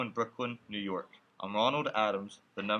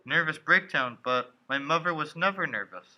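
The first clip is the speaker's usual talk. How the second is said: louder, higher stunned protest; disbelieving; 3 semitones higher, 4 dB louder than usual. Acted. Son protesting news of his mother's breakdown, disbelieving. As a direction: push back in disbelief.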